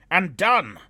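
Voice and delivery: loud high cry of triumph; triumphant spell cry. A narrator's reading. Wizard completing his blinding spell, triumphant cry. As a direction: snap out the spell's end.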